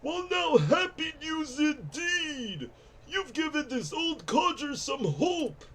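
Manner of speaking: lightly voiced grumpy old codger; strained old-timer voice; old man voice. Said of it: "old man voice is normally easy for me".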